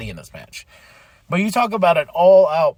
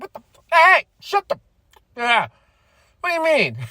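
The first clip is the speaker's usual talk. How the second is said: high, stammering disbelief; mock flustered Swerve; 12 semitones higher than usual. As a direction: play it flustered and caught off guard. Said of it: "Swerve's like".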